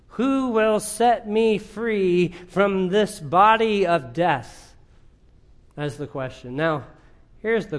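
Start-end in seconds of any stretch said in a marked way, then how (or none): 0.1-4.7 slow, raised preacher's reading; emphatic scripture quote. Acted. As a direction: draw the question out from a high start, settling at the end. Preacher quoting Paul's anguished question.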